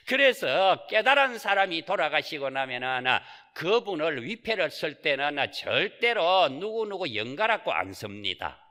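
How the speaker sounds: usual speaking voice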